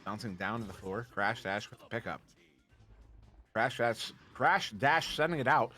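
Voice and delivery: blurred S sounds from half-numb tongue. Real, not acted. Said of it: "The right side of my tongue is still, is still numb".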